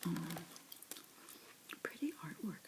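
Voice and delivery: ordinary delivery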